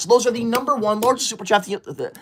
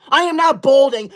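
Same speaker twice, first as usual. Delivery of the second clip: higher, insistent protest; indignant denial; 4 semitones higher than usual. Acted. Streamer repeating balding denial, indignant protest. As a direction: insist on it, still offended.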